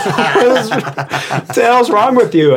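high, loud mock outrage; retold incredulous scolding. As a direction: replay being appalled by an absurd request. Retold incredulous reply to customer.

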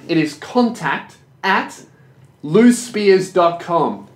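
loosespears dot com spelled out slowly, each word laid down; slow dictation. Shown as a demonstration. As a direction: dictate it slowly so he can write. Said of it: "write this down and get it tattooed".

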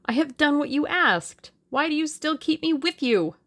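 high-pitched, agitated protest; pleading cry. A narrator's reading. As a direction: plead to be let go. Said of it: "cried the other".

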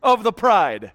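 mock grand declaration. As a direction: proclaim it grandly and slowly, playfully. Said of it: "would have been great if".

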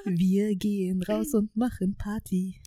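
slow whispered lyric. Acted. Quoting lyric secretly.

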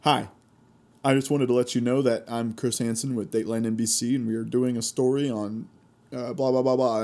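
brisk lightly voiced TV host intro; Chris Hansen spiel. Imitating the TV host's brisk opener to the predator. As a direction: rattle off the reporter's opener. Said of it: "Chris Hansen does a spiel like".

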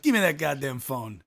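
put-on mild Chicago accent, demanding; thick Chicago accent. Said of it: "In a thick Chicago accent".

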